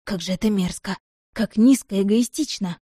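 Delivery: plain reading voice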